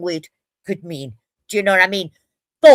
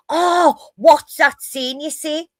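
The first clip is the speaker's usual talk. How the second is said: higher, drawn-out imitated curiosity; eager outsider; 6 semitones higher, slower than usual. Outsiders asking a Geordie for the famous saying, mock-eager. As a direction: put on a keen tourist's question.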